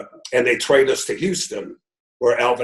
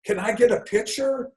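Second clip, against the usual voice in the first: put-on high gushing old lady voice, pitch way up; elderly lady; 11 semitones higher than usual. Retelling a fan meeting to the interviewer, in a high old lady voice. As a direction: squeal like a starstruck old fan. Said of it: "an elderly lady sees the sign and goes".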